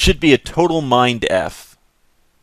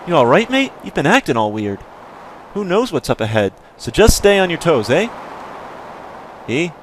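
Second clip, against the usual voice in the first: put-on Canadian accent; 4 semitones higher than usual. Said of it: "we'll get a little Canadian in there".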